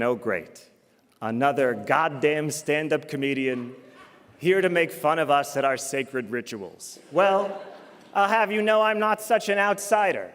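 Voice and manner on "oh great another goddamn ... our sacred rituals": low, grumbling inner thought; mock weary disdain. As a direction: grumble low like an unimpressed audience. Voices the audience's grudging thoughts.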